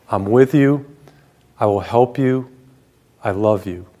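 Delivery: gentle reassurance, softening and dropping at the end; unhurried, loving assurance with pauses between phrases. Retold or imitated. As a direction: speak tenderly, as God reassuring a listener. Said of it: "it's always been very gentle".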